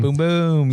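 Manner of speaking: mouth-made boom boom blasts; fireworks noise. Shown as a demonstration. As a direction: pop out booms like fireworks. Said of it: "That was fireworks noises".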